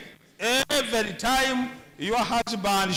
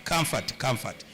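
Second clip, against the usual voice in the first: soft, tender comfort; 8 semitones lower than usual. Shown as a demonstration. A wife comforting her demoted husband, softly. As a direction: comfort said lower and softer, trailing off gently. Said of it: "comforting words only".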